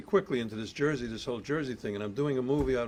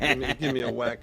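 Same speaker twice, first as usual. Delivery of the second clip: laughing; 2 semitones higher, 8 dB louder than usual. Retold or imitated. Laughing retold joke, loud.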